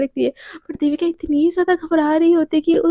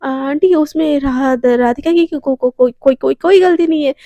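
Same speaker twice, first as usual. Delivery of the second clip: louder, stammering plea to auntie; panicked pleading; 4 dB louder than usual. Acted. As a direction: plead in a rush of nerves. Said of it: "बहुत ज़्यादा घबरा जाती है".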